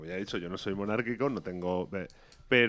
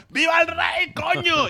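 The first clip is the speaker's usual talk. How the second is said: high, loud cheer for the king; crowd-fired shout; 5 dB louder, slower than usual. Retold or imitated. Caught up in the royal crowd, shouting a loud cheer. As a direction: belt it out, swept up by the crowd. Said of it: "que he tenido que gritar".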